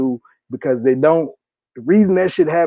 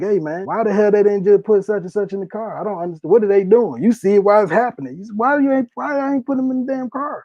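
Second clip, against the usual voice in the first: higher-pitched, exasperated bystander crying out; retold neighborhood outcry; 5 semitones higher than usual. Neighbors in the hood demanding answers from police, higher and exasperated. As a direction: ask in disbelief why they won't just use the car. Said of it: "That's all you hear in the hood".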